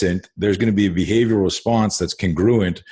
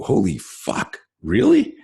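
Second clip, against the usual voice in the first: stunned disbelief; slower than usual. Retold or imitated. Imagined reaction to a shocking question.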